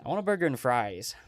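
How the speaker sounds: a second, milder American take; a lighter American accent. Shown as a demonstration. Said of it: "try and do it in my American accent".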